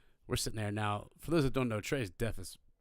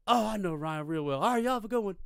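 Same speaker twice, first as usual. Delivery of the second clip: high, rising cheery sing-out; raised, chummy farewell; friendly send-off; 11 semitones higher, 4 dB louder than usual. Retold or imitated. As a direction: imitate a patrolman breezily signing off. Officer turns friendly, signs off.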